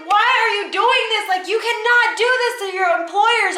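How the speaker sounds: high, outraged confrontation; retold screaming. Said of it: "Like, I was screaming".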